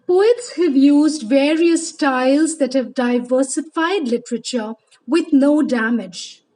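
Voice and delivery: measured, declaimed poetry reading; deliberate recital with lifted phrase openings; poem recitation. Acted. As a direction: recite it formally to an audience, phrase by phrase. Reads a poem aloud.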